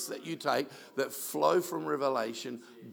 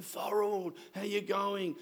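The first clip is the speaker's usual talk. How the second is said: higher, cheery call; 6 semitones higher, slower than usual. Retold or imitated. Pastor greeting the elderly man on FaceTime, cheery higher call. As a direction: call his name over the video line. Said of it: "I'm going".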